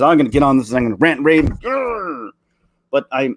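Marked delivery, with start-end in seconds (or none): 0.0-1.4 fast, hammed-up hothead about to rant; worked-up rant. Vlogger imitates his own first angry impulse, fast mock rant. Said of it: "my initial reaction is". 1.4-2.3 playful growl pitched high; mock growl. Vlogger mimics his own anger, playful growl. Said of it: "my initial reaction is".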